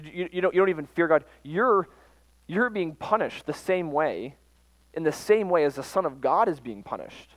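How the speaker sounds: the repentant thief scolding with rising force; indignant rebuke. Acted. Quoting the rebuking criminal.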